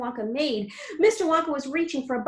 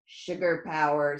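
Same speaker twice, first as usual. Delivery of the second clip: proud; 8 semitones lower, slower than usual. A narrator's reading. Wonka explains proudly.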